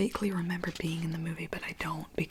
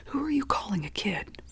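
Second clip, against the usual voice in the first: a yell held in a whisper, a bit louder; 3 semitones higher, 6 dB louder than usual. Acted. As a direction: snap back at him under your breath. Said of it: "he is yelling".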